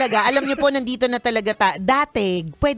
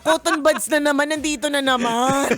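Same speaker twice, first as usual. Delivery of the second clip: sarcastic; 3 dB louder than usual. Retold or imitated. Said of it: "sarcastic ako na parang".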